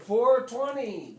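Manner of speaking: loud, high, slow crowd response; chanted crowd answer; crowd yelling back. Retold or imitated. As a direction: shout it back like thousands in a crowd.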